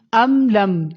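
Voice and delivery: ام لم with both m's closed, no bounce; still meem. Shown as a demonstration. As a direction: close firmly on each m of ام لم. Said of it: "دونوں میم کو ہلانا نہیں ہے". (ام لم کی دونوں میم ہلائے بغیر)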